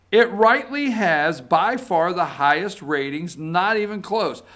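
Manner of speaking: hammed-up president reading his own tweet; tweet read in character. Reading Trump tweet aloud.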